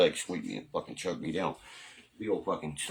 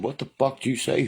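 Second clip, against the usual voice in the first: mock surprise; 6 semitones higher, 4 dB louder than usual. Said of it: "You said".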